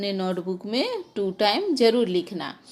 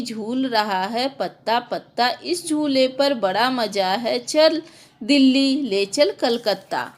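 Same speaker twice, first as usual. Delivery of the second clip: put-on sing-song recital of a children's poem; poem recitation. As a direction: recite it with a lilting rhythm for the class.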